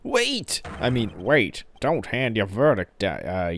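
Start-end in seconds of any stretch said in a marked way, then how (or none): 0.0-0.6 loud, high shout of hold it; objection shout. Acted. Lawyer stopping the verdict, loud objection shout. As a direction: cut the verdict off.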